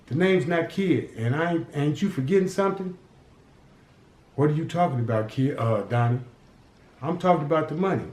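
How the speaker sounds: put-on a boy bargaining hard with a gangster; cocky street kid.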